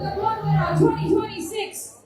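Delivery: hype announcer. Real, not acted. Hyping crowd into parade start.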